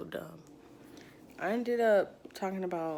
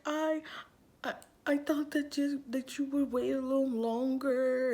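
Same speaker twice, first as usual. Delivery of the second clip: high, plaintive, halting voice; imitated crying mom; 5 semitones higher than usual. Mom thought you would wait longer, imitated crying. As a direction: stumble upward into a mock tearful lament. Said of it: "Like, she just cried".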